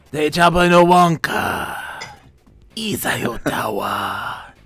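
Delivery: Twi'lek alien language. Acted. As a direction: fake alien language, whispered lines. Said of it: "What was that that I just did?".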